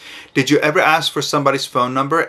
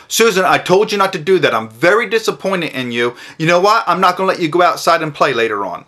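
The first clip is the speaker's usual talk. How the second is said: louder, scolding mother; scolding mom; 5 semitones higher, 4 dB louder than usual. Retold or imitated. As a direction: tell the daughter off. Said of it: "she said to her daughter".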